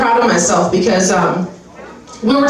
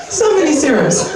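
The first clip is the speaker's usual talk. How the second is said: so many serums shouted higher through a laugh; 6 semitones higher than usual. Real, not acted. Fed up with serum ads, laughing shout. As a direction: yell it out, cracking up.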